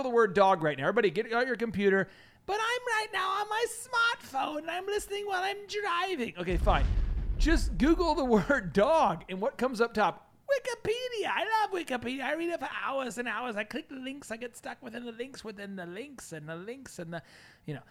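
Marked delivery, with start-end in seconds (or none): 2.5-6.3 high whiny listener. Retold or imitated. Mock listener objection. 10.5-17.2 high nerdy voice fading soft; nerdy gush fading. Acted.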